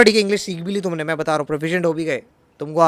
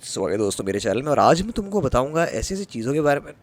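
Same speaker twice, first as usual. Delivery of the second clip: mock Hindi YouTuber; 3 semitones lower, much faster than usual. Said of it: "अगर मैं तुमसे ऐसे बात करता".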